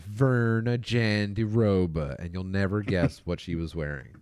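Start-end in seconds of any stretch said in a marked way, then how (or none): 0.1-2.2 put-on slow, slurred drunk mom drawl. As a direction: drag the name out like a tipsy mom. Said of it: "that was my drunk mom voice".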